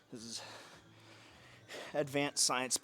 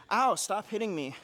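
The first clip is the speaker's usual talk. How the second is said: mock whining; 7 semitones higher, 7 dB louder than usual. Mock complaint to partner.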